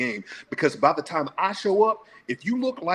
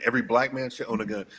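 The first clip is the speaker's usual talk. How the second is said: quick restatement; faster than usual. Real, not acted. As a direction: rattle off Every black man again, lighter. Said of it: "You saying everybody should own one".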